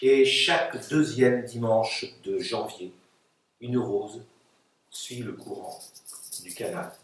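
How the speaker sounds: measured verse, dying away in short phrases; poetry reading. Acted. Poets read their texts aloud.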